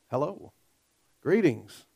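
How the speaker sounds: a calm, low-key "Hello, greetings"; understated greeting. Retold or imitated. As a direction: say "Hello" gently, almost under the breath. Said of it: "But that's not Jesus' style".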